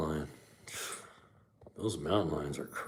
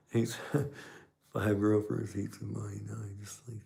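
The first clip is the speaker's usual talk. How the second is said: laugh-reading a viewer's comment, going quieter; laughing while rereading; 3 dB quieter than usual. Real, not acted. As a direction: read it again while cracking up, trailing off.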